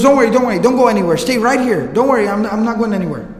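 mildly flustered, eager to appease; anxious placating. Retold or imitated. Frightened man begging his visitor to wait, hastily placating.

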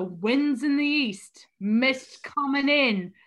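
slow mock Cockney recitation; Dick Van Dyke's Cockney. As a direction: lightly put on a bad British accent, measured. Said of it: "tries to Cockney it up a little too much".

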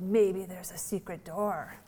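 put-on slow, soft little-girl suggestion; hushed child idea. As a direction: whisper it like a child sharing a secret. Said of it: "she said".

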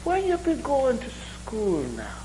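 mock Irish brogue. Irishman quizzing the other about school, high mock Irish brogue. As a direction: ask it in a Jamaican-tinged Irish voice. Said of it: "my Irish brogue sounds a lot like Jamaican".

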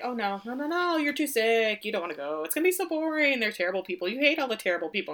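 a touch of mock pleading; coaxing her to stay home, lightly; fake concern. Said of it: "Stanley's like".

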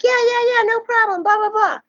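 high-pitched, rattled-off reassurance; high mock-agreeable voice; imitated eager agreement. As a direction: mimic an easygoing band waving it through. Band's easygoing agreement, acted out.

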